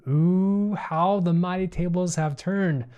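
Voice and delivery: gloating villain, a touch hammed; evil villain voice. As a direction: relish it like a movie bad guy. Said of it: "So that's my evil villain voice".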